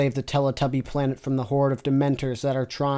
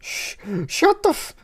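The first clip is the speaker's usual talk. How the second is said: breaking up; 12 semitones higher than usual. Real, not acted. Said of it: "I can't do this".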